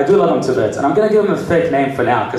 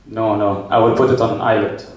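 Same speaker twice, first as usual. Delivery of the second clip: lower, insistent Arab client; Arab accent; 6 semitones lower than usual. Acted. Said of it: "An Arab guy would be like".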